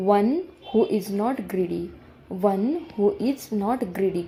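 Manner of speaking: slow model reading. Shown as a demonstration. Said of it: "teacher models the sentence slowly".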